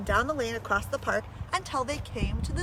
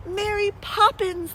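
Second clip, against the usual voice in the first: higher, drawn-out shouted call; children shouting; 8 semitones higher, slower than usual. A narrator's reading. Children shouting after Mary Poppins as she leaves, higher and slower. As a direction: call her name out the window, slow. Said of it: "they shouted".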